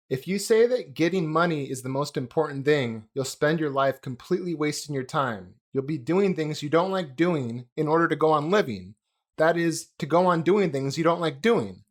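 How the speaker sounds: normal talking voice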